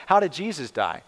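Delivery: usual speaking voice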